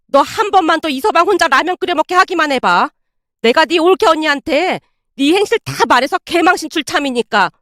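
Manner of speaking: heated motherly warning; worked-up threat. Acted. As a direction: threaten a daughter in agitation. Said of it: "어찌나 흥분한 채 말을 하던지".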